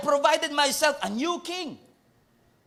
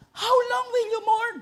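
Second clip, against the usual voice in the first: high crying plea; 11 semitones higher than usual. Acted. Pastor voicing God to Samuel, high crying plea. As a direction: plead it like a grieving voice. Voicing God's question again.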